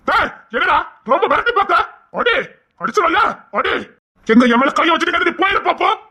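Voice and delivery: high, daring taunt at his brother; taunting challenge. Acted. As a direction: dare him to hit you. Brother taunts before fight.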